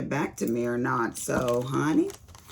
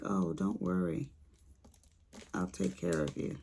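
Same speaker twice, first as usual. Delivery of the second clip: lightly voiced man, lower and softer; a hint of a reassuring repair man, lower; repair guy; 9 semitones lower, 8 dB quieter than usual. Retelling the repair guy's promise, low soft imitation. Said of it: "It was a guy".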